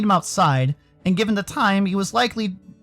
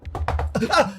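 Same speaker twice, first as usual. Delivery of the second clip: short high startled gasp; startled yelp; 6 semitones higher than usual. Acted. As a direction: jolt with a sudden high gasp. Startled by knocking on door.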